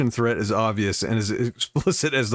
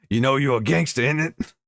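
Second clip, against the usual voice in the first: put-on London gangster accent; 3 semitones higher than usual. Vlogger quoting the filming prisoner to his friend, in a London gangster accent. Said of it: "I have to do an accent".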